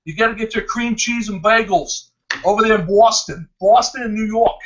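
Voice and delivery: a light mock New York accent. Host teasing Jeremy about cream cheese and bagels, playful New York accent. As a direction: put on a touch of New York. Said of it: "You gotta do that New York accent".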